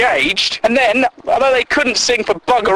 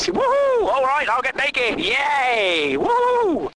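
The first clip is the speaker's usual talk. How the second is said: high squealing whoops; shrill mock celebration whoops; mock cheering; 6 semitones higher, 4 dB quieter, much slower than usual. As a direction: whoop it up like a giddy fan. Mock naked women cheering.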